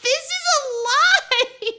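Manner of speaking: high, loud and slow through laughter; real laughter breaking the line; laughing through it. Real, not acted. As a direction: stretch the words out while cracking up. Punchline while laughing.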